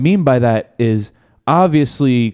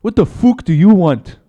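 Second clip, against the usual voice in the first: higher mock Irish accent; Conor McGregor; 4 semitones higher, 4 dB louder than usual. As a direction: put on an amateur Irish brogue, challenging. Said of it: "do his fucking Irish accent".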